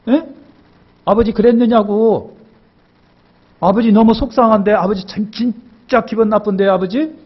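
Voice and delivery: 높고 조금 큰 소리로 투정 부리듯; 아버지에게 떼쓰는 큰아들처럼 씩씩대며; sulky tantrum. Acted. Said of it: "막 승질 부려요". (성질내며 징징대는 큰아들 목소리)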